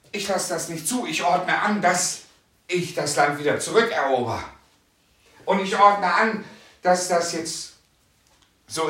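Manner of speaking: loud, rising commands of authority; commanding declaration. Pretend. Preacher acting out the believer taking back the land, loudly commanding. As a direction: order it like a warrior of God. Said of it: "und sagen".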